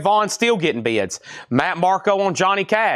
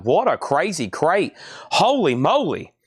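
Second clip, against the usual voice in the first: out of breath. Real, not acted. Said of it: "Man, I'm out of breath".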